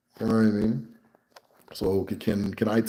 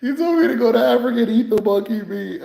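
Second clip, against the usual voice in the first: retold insult; 12 semitones higher, 4 dB louder than usual. Narrator retells insult.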